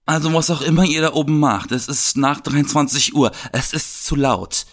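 a hint of a bossy, grating neighbour; annoying neighbour voice. Complaining neighbour at the door, lightly bossy and grating. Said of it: "mit so einer ganz nervigen Stimme".

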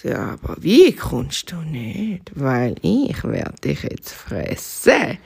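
menacing fox. Acted. Fox threatens bunny.

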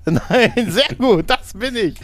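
high, relieved mock voice; playful radio caller relief. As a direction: sound pleased the lie worked.

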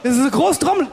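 booming showman voice; big booming voice. Shown as a demonstration. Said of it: "ganz kleine Trommel".

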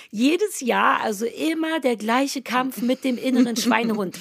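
cheerful ad read voice. Acted. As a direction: read it like a radio ad. Reads ad intro.

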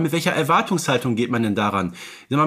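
usual speaking voice

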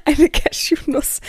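slow laughing words. Real, not acted. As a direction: laugh it out slowly. Laughing at own nut snack.

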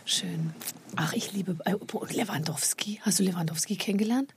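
hushed whisper, breathless with awe; fan whisper. Real, not acted. Guest whispering her love of Lewandowski to the host. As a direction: whisper like sharing a secret crush. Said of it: "whispers about Lewandowski".

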